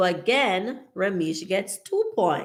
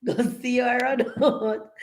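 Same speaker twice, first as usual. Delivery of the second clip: laughing; 5 semitones higher than usual. Real, not acted. Still laughing at the joke.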